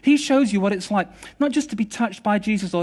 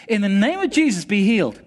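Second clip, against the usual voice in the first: raised, emphatic prayer command; healing command; 2 semitones higher, 4 dB louder than usual. Retold or imitated. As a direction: declare it boldly over the sick man. Re-enacts his healing command.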